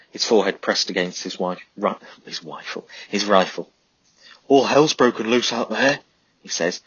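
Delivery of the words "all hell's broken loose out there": loud, high, urgent soldier; Pete shouting out. A narrator's reading. Pete reporting the battle to Charlie, loud and urgent. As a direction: yell it over the gunfire.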